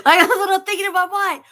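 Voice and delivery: high laughing loud burst. Real, not acted. Dad cracking up at his own thought, laughing. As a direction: laugh through the line. Laughing after acted quote.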